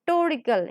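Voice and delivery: "torical" started on a pressed "tor"; stress on "tor". Shown as a demonstration. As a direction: hit the first sound of "torical" firmly. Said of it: "we are stressing second to".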